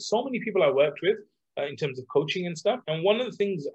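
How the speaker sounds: ordinary talk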